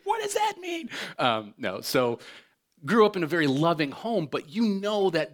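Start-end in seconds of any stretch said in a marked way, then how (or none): 0.0-0.9 very high squeak of a puzzled wife; wife texting mid-service, a very high squeak; high mock wife voice. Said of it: "She's like".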